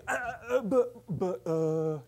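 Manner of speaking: high, bewildered stutter; flustered stammering. Retold or imitated. Audience member stunned by her complaint, flustered mock stammer. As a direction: grope for words in mock disbelief. Acts out own stunned confusion.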